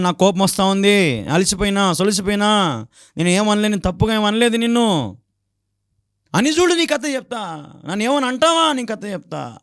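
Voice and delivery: high mock scolding; mother scolding. Neighbor's mother scolds the angry husband, high mock scold. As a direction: threaten to tell his story, pitched high. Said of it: "అని అంటా ఉందంట అమ్మ".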